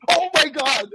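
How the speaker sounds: high-pitched mock shock; startled shriek, imitated. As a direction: squeal it like someone caught off guard. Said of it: "Karen literally jumped out of her shoes".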